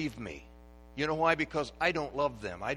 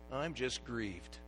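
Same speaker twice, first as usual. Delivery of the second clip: grieved mother; 3 semitones higher, 9 dB louder than usual. Retold or imitated. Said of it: "what she'd say".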